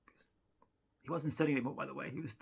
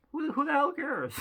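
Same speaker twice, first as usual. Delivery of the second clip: mock outrage; 12 semitones higher, 7 dB louder than usual.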